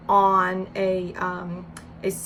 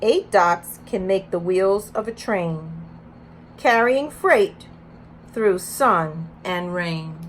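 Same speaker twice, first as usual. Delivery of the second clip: put-on reading to children; 4 dB louder, slower than usual. Reads picture book aloud.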